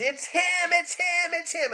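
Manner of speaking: high, excited mock scream of recognition; imitating a screaming woman. Woman spotting the chiropractor, high excited squeal. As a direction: squeal it like a thrilled fan. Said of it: "she starts screaming".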